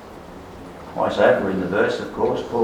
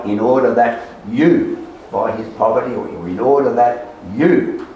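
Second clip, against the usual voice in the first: "you" lifted and held each time; stress on you. Shown as a demonstration. Preacher shows congregation an emphatic pronoun, stress on you. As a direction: lean hard on each "you". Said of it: "They're both emphatic".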